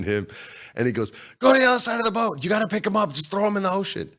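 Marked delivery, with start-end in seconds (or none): 1.4-4.1 high-pitched imitation of a frantic buddy; rapid, high orders in mock panic; urgent instructions. Storyteller mimicking buddy directing his friend, urgent high voice.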